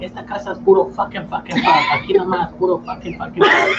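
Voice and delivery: mock angry mom. Mom scolding her cursing kids, mock shouted. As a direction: play the fed-up mother yelling. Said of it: "She's like".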